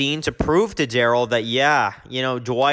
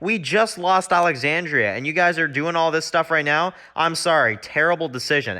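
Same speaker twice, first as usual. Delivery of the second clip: higher, mock-frustrated Glenn scolding the group; retelling Glenn telling them off, higher and annoyed; exasperated Glenn; 4 semitones higher than usual. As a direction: act out Glenn's irritation, a bit higher. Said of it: "And Glenn's just like".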